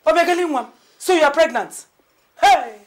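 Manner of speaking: loud, high exclaiming; astonished. Acted. Mother learning her daughter-in-law is pregnant, astonished. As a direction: burst out in amazement.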